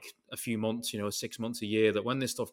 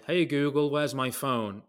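calling out louder to the phone across the workshop; retold shout; 3 semitones higher, 3 dB louder, slower than usual. Calling to the lost phone at one in the morning, a mild shout. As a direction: raise your voice to the phone, half a real shout. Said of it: "So I'm shouting".

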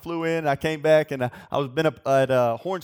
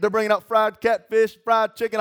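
getting fired up preaching; 4 semitones higher than usual. Acted. Pastor hyping up the youth about a Chattanooga diner, fired up and preachy. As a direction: preach the menu like a revival. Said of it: "I'm gonna start preaching here".

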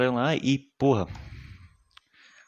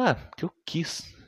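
slow, higher put-on killer voice; killer's offhand answer; 7 semitones higher, slower than usual. Killer telling police why he killed her, slow and offhand. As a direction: toss off the answer as if it were nothing.

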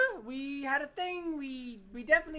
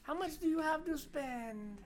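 put-on little old lady voice; 6 semitones higher than usual. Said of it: "this is my little old lady voice".

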